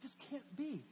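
mildly incredulous inner voice; doubting. Retold or imitated. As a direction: voice his doubt as a troubled question. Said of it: "He's doubting".

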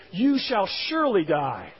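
slow, firm "You shall surely die"; emphatic. Retold or imitated. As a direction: stress on "surely", drawn out slowly. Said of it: "stated in a very emphatic infinitive".

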